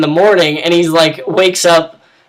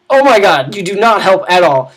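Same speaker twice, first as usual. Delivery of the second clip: fed-up outburst; 3 semitones higher, 3 dB louder than usual. Retold or imitated. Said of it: "she's like".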